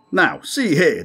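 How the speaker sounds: high, loud irritated outburst; irritated declaiming. A narrator's reading. Captain irritated with his crewman, loud. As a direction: lay down the law, annoyed. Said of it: "declaimed Haraka, openly irritated".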